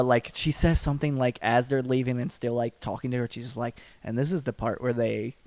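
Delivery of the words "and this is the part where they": imitated deadpan. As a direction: imitate her matter-of-fact deadpan. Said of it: "she just kinda deadpans it".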